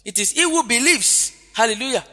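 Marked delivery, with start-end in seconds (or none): 0.3-1.3 "believes" lifted high, then falling; stress on believes. Shown as a demonstration. Preacher correcting a misreading of the verse, stress on "believes". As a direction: punch "believes" as the key word. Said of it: "believing is the emphasis".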